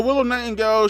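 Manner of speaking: ordinary talk, nothing marked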